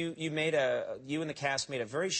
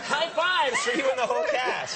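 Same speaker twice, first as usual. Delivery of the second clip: high, loud hammed-up cheering; mock celebration; 10 semitones higher, 7 dB louder than usual. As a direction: shout it out in pretend jubilation. Pretends the Queen celebrates wildly.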